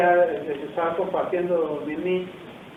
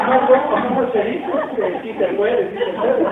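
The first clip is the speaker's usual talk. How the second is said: laughing correction; 5 semitones higher, 6 dB louder than usual. Real, not acted.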